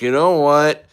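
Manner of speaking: imitated interrogator. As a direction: act out a superior confronting someone, climbing high at the end. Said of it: "They were like".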